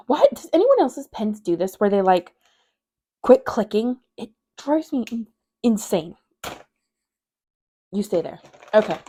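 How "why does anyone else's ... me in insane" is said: louder, exasperated outburst at a small nuisance. Real, not acted. To viewers about a clicking pen, exasperated. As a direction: grumble loudly in real irritation.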